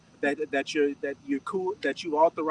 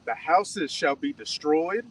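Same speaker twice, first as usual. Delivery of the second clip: slow, measured Bible verse reading; scripture reading; much slower than usual. Acted. Reader giving verse seventeen to the teacher, measured scripture reading. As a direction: read the verse out deliberately, word by word. Reads scripture aloud to group.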